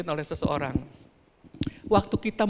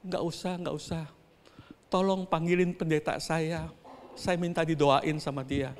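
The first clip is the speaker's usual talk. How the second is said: much softer, faint refusal; weak injured woman; 2 semitones lower, 6 dB quieter than usual. Retold or imitated. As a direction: speak as the hurt mother, barely audible. Injured mother refuses hospital, weakly. (ibu yang terluka berbicara lirih)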